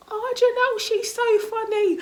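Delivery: loud, high-pitched schoolmates' squeal; high, loud fake hilarity; mock gushing. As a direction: imitate over-excited classmates, drawing it out. Voicing schoolmates' gushing about her.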